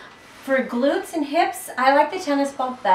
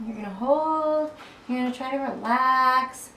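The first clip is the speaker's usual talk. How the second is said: easing into it. Real, not acted. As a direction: stretch out "hold" and "relax" on the breath. Exhales while holding sore spot.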